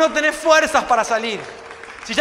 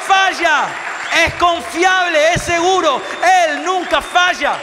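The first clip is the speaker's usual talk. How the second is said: fervent preacher voice; preaching. Acted. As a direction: proclaim it to the whole church. Preaching at full force.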